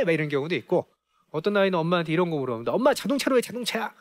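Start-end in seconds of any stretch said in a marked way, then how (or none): 2.7-3.9 put-on higher child voice asking; a hint of a curious child. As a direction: ask like a little kid. Curious child asking, acted quote.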